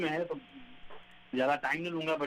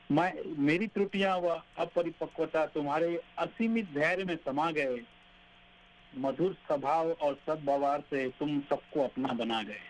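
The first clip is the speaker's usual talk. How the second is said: poem recitation. Acted.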